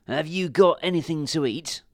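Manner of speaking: hint of a dog begging food; lightly voiced hungry dog. A narrator's reading.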